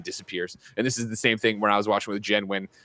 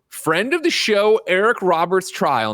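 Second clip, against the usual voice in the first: slow, higher-pitched playful announcement; mock-grand introduction; 9 semitones higher, 3 dB louder, slower than usual. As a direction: stretch it out like a big introduction.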